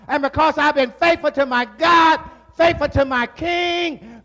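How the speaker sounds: defiant testimony before the king; Daniel pleading his case. Acted. Daniel tells the king he stayed faithful, lightly voiced and preached.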